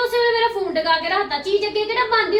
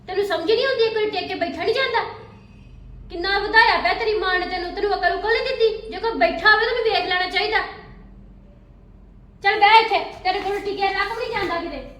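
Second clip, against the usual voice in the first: scolding; 3 semitones higher, 5 dB louder than usual. Acted. Aunt scolds the boy.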